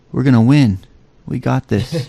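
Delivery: deadpan pep talk at normal volume; no emotion. Shown as a demonstration. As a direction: say it with zero feeling. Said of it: "at average talking, you know, volume".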